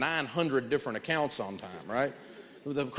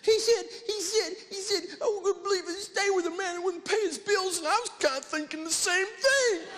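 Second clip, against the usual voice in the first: much higher, sobbing and half-laughing; mock sobbing wife. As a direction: imitate the wife crying on the phone. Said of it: "and she's crying".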